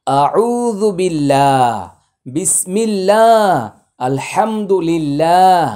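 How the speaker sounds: আল্লাহ said with a thin, light lam, slowly; thin Allah. Shown as a demonstration. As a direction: keep the লাম in আল্লাহ thin after a kasra. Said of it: "এইভাবে।". (আল্লাহ শব্দ পাতলা করে পড়া)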